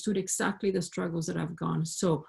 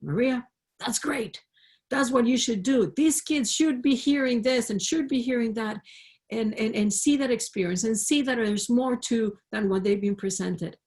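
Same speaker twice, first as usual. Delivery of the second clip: emphatic, higher-pitched retold encouragement; lightly voiced mentor, raised pitch and firm emphasis; Bernice; 4 semitones higher than usual. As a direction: imitate an enthusiastic mentor urging her on. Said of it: "in her Bernice way, she told me".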